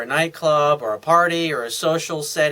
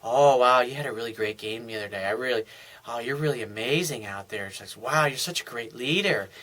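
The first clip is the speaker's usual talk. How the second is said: fawning woman; 6 semitones lower, 6 dB quieter than usual. Retold or imitated. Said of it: "She's gonna".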